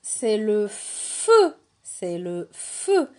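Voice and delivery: FEU slowly, with a long F; stretched initial sound. Shown as a demonstration. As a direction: hold the F at the start of "feu". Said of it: "Est-ce que dans feu, j'entends feu".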